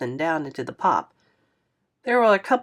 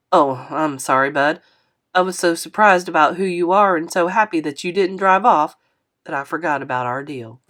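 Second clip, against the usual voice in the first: lightly voiced older man; 4 dB louder than usual. Narrator voices Mister Lewis.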